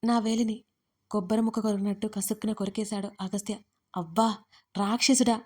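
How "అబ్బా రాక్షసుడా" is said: a sudden loud yell of pain, pitch steady; loud pained cry at a teasing husband; loud yelp. A narrator's reading. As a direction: yell it out as he bites her finger. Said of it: "అంటూ గట్టిగా అరిచేశాను నేను".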